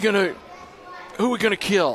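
put-on voice crack. Recalling getting up there at fourteen, retelling a voice crack. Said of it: "But my voice goes on me".

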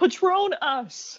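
very high, loud shouted yell. Retelling a joke's punchline after saying it must be yelled: yelling the punchline. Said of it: "You have to yell it".

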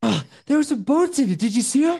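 put-on breathless voice. Pretending to call on the phone as Mark Wahlberg, out of breath. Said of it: "This is Mark Wahlberg".

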